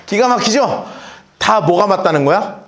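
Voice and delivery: usual speaking voice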